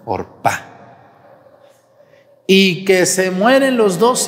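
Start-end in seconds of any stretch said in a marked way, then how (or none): 0.0-0.7 "Orpa" in two parts, or... PA; low, deliberate or-PÁ for "Orpa"; stress on the final A. Shown as a demonstration. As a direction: separate "Orpa" and stress its last A. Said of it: "con acento en la A".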